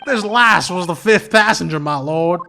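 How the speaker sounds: slow, put-on Irish witness voice; Irish accent again. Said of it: "maybe he should just be a redneck".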